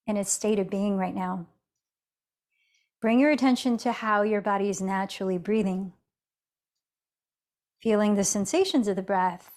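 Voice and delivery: guided meditation with long pauses between cues; unhurried yoga teacher, leaving space after each instruction. Real, not acted. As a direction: ease them gently into noticing the breath.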